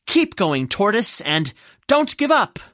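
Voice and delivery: kind spectator cheering a runner on; encouraging cheer. Acted. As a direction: supportive crowd call, building in pitch. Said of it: "kinder, understanding ones loudly cheered".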